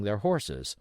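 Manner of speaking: ordinary delivery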